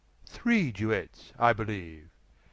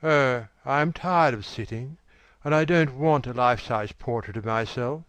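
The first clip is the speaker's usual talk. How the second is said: a touch of spoiled petulance; quick, pouting young voice; wilful, petulant; 3 semitones higher, faster than usual. A narrator's reading. Dorian complains to Basil about sitting, petulant. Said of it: "in a wilful, petulant manner".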